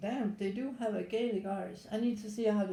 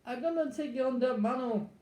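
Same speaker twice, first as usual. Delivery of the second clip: lightly put-on Caribbean accent; mock Caribbean accent; 2 semitones higher than usual. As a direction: have a rough go at a Caribbean accent. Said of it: "I think they speak like that".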